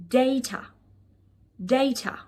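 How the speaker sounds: "data" said as DAY-tuh; British pronunciation. Shown as a demonstration. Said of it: "British English that might be possibly pronouncing wrong".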